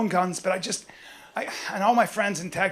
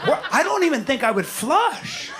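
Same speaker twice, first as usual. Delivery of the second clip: higher, laughing mock voice; mock billionaire; 7 semitones higher than usual. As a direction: act the lazy rich guy. Imagining billionaire life.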